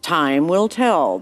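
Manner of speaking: solemn. Acted. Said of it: "in a solemn voice".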